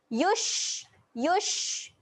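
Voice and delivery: "Yush" with the sh breath audible; airy shin. Shown as a demonstration. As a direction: push air on the sh of "yush". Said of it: "Keluarkan angin". ("yush" dengan hembusan angin)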